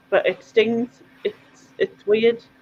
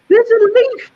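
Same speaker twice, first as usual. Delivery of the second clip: high, slow mock child's wail; crying little girl; 4 dB louder, slower than usual. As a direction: whimper it like a tearful toddler, laughing through. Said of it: "she was crying".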